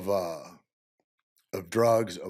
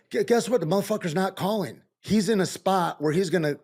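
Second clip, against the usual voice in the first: heated rant; 9 semitones higher than usual. Real, not acted. Ranting about absent friends.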